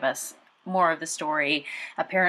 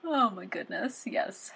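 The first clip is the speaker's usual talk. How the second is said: breathless shocked whisper; 3 semitones higher, 5 dB quieter, slower than usual. Real, not acted. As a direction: gasp it out under the breath. Reacting to the creepy names.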